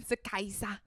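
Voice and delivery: hushed whisper. Acted. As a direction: breathe it conspiratorially. Joking whispered Kaiser echoes.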